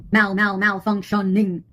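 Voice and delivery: slow, broken-up "Mal, mal, malfunctioning"; glitching stutter. Pretend. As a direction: stick on "Mal", then spell out "malfunctioning" syllable by syllable. Mimics a glitch, syllable by syllable.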